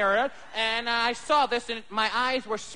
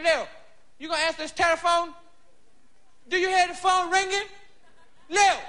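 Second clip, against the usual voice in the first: put-on drunk father; 4 semitones higher than usual. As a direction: slur and holler at Lil from the couch. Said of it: "My pop's home like this, drunk".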